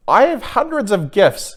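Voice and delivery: high, tearful cry of a lonely king; crying aloud. Acted. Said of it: "he cried aloud".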